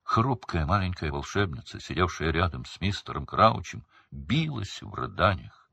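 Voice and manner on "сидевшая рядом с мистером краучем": plain reading voice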